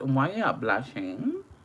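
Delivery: bad, horrible put-on British accent. Addressing viewers, in a horrible UK accent. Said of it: "My horrible U K accent".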